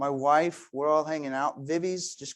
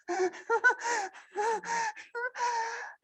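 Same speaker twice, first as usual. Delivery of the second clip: put-on baby laugh. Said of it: "she goes".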